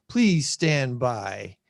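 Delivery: slow mock announcer please stand by; drawn-out technical difficulties announcement. Announcer-style filler while fixing screen.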